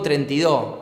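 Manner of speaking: "treinta y dos" said as "trenti do", with the final S of "dos" left off; a sloppy "treinta y dos" without its S; dropped S. Shown as a demonstration. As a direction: swallow the S at the end of "dos". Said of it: "me olvidé la S".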